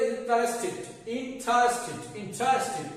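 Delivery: ইন্টারেস্টেড as "in-tres-tid"; short i closing each ইন্টারেস্টেড; correct -tid ending. Shown as a demonstration. Teacher repeats the model for viewers, ইন্টারেস্টেড with -tid. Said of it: "একইভাবে".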